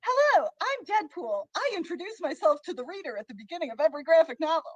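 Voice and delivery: lightly voiced, chirpy self-introduction; Deadpool. Contestant insists this is Deadpool, lightly voiced, quick introduction. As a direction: open high, then rattle off quickly. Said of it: "That's what Deadpool sounds like".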